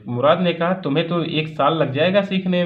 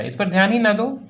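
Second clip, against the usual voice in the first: mock roar; 6 semitones higher than usual. Uncle roaring at the farmer to ignore the horse, raised voice. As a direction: belt it out like the angry uncle. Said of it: "फिर से वो वही dialogue चिल्लाया".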